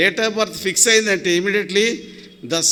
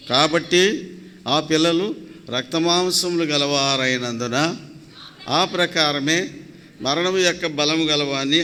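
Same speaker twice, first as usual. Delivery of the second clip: slow, measured Bible reading; scripture reading; 2 semitones lower, slower than usual. Acted. Preacher reads a Hebrews verse to the congregation, slow and measured. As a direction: read it out slowly, phrase by phrase.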